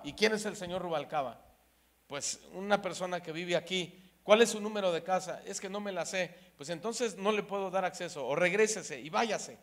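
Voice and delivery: mildly mock the aggressive gate guard; rude guard. Gate guard snapping rudely at a lost visitor, mock aggressive. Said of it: "tenía una manera muy agresiva de contestarle".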